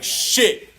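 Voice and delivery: breathy whispered curse under the breath; whispered shit. Retold or imitated. A stunned driver whispering his dismay at the town. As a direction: mutter it in a voiceless whisper. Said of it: "And you like".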